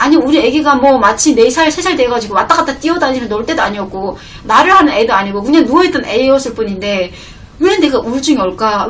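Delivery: ordinary delivery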